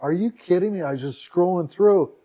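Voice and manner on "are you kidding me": higher-pitched mock amazement; retold disbelief. Website owner opening email to endless interview requests, amazed. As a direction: relive the amazement, voice lifting. Retells reaction to flood of requests.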